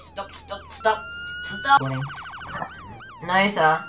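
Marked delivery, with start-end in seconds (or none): 0.0-1.8 very high squeaky pleading. Real, not acted. Tased, squeaky voice.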